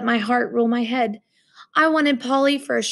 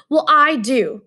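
louder firm declaration; declared; 3 semitones higher, 5 dB louder, slower than usual. Acted. Roommate declaring his wish, a louder firm statement. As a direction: state it firmly. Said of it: "he declared".

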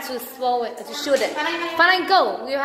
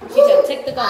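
laughing; 6 dB louder than usual. Real, not acted.

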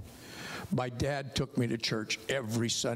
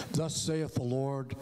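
solemn prophet; slower than usual. Retold or imitated. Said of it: "I'm thinking he was gonna say".

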